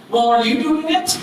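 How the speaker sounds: frustrated comeback. Retold or imitated. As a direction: turn the question back on him. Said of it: "He's like".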